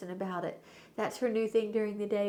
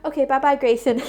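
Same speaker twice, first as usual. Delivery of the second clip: imitating toddler; 5 semitones higher, 11 dB louder than usual. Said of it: "and then she goes".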